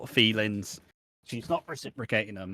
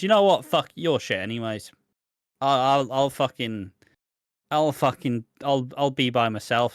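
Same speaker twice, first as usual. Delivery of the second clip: mock defiant outburst; 2 semitones higher, 4 dB louder than usual. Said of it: "Priya essentially goes".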